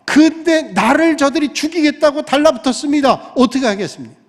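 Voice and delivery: 높은 소리로 하나님께 하소연; 답답함을 하나님 앞에 힘주어 쏟아내라; 답답한 토로. Acted. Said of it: "답답함 가운데 하나님 앞에 토로합니다". (답답해서 높여 호소하는 엘리야)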